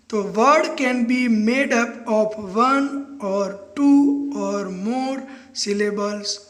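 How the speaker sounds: very slow, word by word; slow dictation. Shown as a demonstration. Teacher dictating the definition to students, very slow. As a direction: dictate it so they can write. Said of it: "teacher dictating definition".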